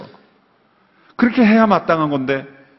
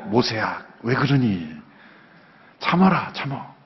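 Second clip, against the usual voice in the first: low, gentle fatherly voice soothing an upset Moses; lightly voiced God hushing him; God calming Moses; 4 semitones lower than usual. God telling angry Moses to calm down, low soothing tone. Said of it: "뭐 이렇게 나와야 될 것 같은데".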